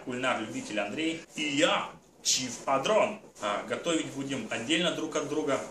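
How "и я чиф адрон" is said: slightly brighter alter ego. Pretend. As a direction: switch into the alter ego host. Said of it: "будем мы".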